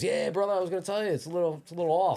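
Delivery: high-pitched put-on voice, teasingly friendly; imitated celebrity reply. Star answers gym owner about cable, imitated celebrity reply.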